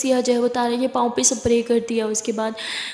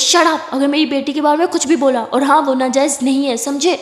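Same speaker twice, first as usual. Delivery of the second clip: angry father; 4 dB louder than usual. Acted. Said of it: "गुस्से में".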